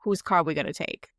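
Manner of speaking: put-on light Boston accent. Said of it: "In, like, his Boston accent".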